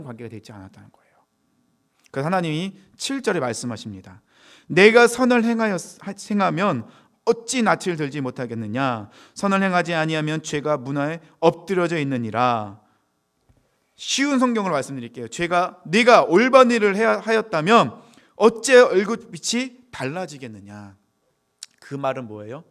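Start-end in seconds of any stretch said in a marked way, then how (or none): 4.7-12.8 formal declaimed verse; scripture reading. Acted. Reads verse seven aloud. 15.3-21.0 loud, raised verse reading; preacher reading out to the congregation; scripture reading. Acted. Reads easy Bible version.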